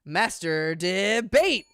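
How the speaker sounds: slow, drawn-out announcement; announcer. Acted. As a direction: stretch it like a game show host. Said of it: "starts the round".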